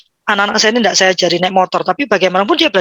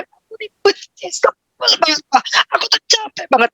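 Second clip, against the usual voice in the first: put-on whiny child; 9 semitones higher than usual. A child whining to dad about being fed up. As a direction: whine it like a tired kid. Parent voices a child complaining.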